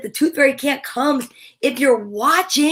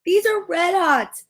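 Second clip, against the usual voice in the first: mild yelled complaint; 4 semitones higher than usual. Acted. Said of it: "I yelled".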